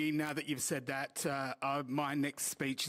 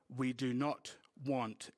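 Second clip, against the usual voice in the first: slow, measured stern quote; each word slow and deliberate; slower than usual. Retold or imitated. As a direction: imitate a kid laying down the law. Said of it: "in a very stern voice".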